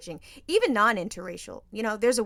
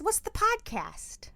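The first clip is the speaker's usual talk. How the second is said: high, slow whisper; hushed curious question; 12 semitones higher, slower than usual. Retold or imitated. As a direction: whisper it like a secret. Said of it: "They said".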